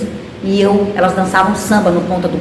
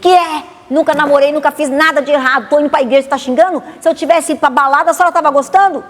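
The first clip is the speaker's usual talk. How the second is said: angry retort; 7 semitones higher than usual. Retold or imitated. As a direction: throw it back at her mother in outrage. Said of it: "eu já tava com raiva mesmo".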